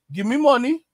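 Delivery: high mock demanding. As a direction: mimic an entitled Gen Z kid. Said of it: "That's Gen Z".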